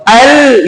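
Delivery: "ال" with a clear, held L; lam pronounced. Shown as a demonstration. Teacher asks students if lam is heard, lam sounded in "ال". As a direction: let the L ring out in "ال". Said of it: "لام کی آواز آ رہی ہے".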